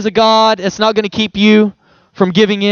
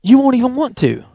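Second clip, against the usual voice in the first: gentle Jesus voice. Retold or imitated. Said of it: "He's just saying".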